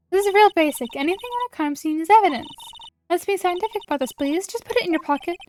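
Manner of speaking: put-on high, emphatic young science buff; insistent girl sidekick. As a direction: lecture him briskly in a high voice. Voices eager girl in game.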